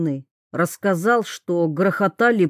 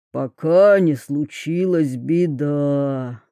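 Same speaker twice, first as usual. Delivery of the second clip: slow, lower, even droning tale; monotone voice; 3 semitones lower than usual. Acted. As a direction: tell it slowly in one flat tone. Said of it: "монотонным голосом рассказывал Вью".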